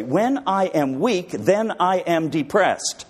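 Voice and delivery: slow, heavy, sighing delivery; mock despondent. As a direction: drag it out like a man weighed down. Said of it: "I would finish it this way".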